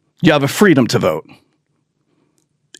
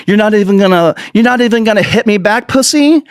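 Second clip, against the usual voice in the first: mock bully taunt; 6 semitones higher than usual. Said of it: "he's like".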